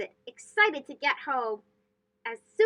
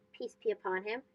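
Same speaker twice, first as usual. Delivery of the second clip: hushed honorific; 7 semitones lower, 10 dB quieter than usual. Acted. Honorific said after name.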